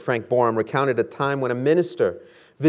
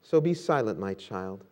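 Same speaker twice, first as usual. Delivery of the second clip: tender. Acted. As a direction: speak tenderly to a weary child. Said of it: "he tenderly said".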